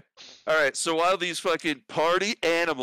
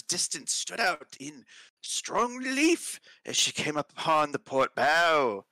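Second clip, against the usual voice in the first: put-on Australian accent; slower than usual. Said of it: "I just went into Australian".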